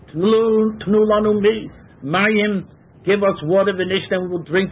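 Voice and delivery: a touch of a demanding crowd; people demanding water. Acted. Teacher voices thirsty Israelites begging Moshe, mildly demanding. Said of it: "they said".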